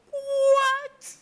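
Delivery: very high, wailing disbelief; shocked cry. Acted. Child told by brother she was found, high shocked cry. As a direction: squeal it in hammed-up shock.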